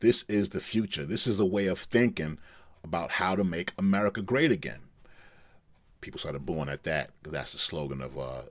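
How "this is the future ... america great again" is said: Impression of a rapper. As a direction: declare it to the arena, lightly imitating the rapper. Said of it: "Kanye West went on to say".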